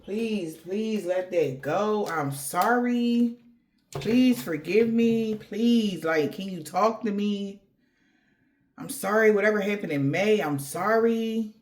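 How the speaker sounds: slow, drawn-out pleading apology; an ex begging the querent for forgiveness, slow mock pleading. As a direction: plead slowly, like someone desperate to be forgiven. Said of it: "Somebody is begging you".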